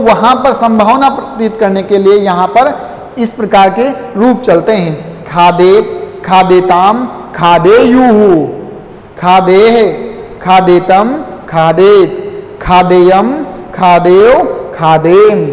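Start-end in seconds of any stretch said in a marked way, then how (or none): 5.3-15.5 recitation drill. Shown as a demonstration. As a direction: chant the verb forms for pupils to repeat. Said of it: "एक बार फिर से मेरे साथ उच्चारण कीजिए".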